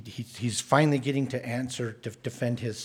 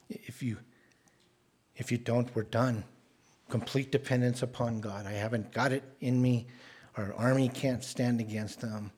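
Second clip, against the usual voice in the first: softer, hushed plea to God; humble whispered-feeling prayer, softer; 4 dB quieter than usual. Acted. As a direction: pray it quietly, laying it all down. Pastor voices Hezekiah's prayer.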